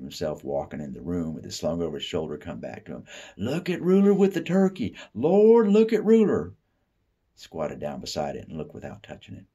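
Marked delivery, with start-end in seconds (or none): 3.4-6.5 very high, loud delighted cries; excited exclaiming. Pretend. Family imagined admiring Ruler's turkey, high and loud. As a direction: cheer him as a hero.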